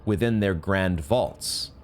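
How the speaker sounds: lightly voiced solemn choir of elders; solemn NPC reading. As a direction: intone it like an old oracle. Reads the NPC dialogue aloud.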